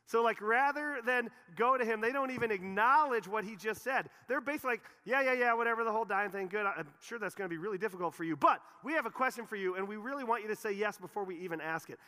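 high, loud mock brush-off; hammed-up careless "yeah yeah yeah" voice; mocking dismissive disciples. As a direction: toss it off like they don't care. Preacher mocking disciples' careless reply.

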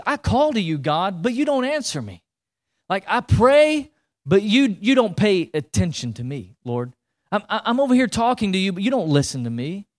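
mildly exasperated plea to God; lightly acted frustrated prayer; frustrated complaint. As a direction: complain that you are being ignored, pitch jumping up. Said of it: "of just frustration towards his situation".

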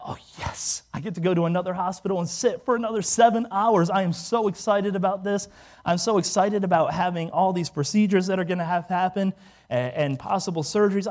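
put-on eager gushing; mock excitement. Burn patient being moved to another hospital, mock excitement. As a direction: pretend to be thrilled by bad news. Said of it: "It wasn't my thought".

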